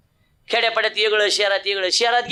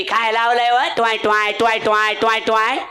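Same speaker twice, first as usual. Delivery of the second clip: wife's grumble. Retold or imitated. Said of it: "तीन बोलती".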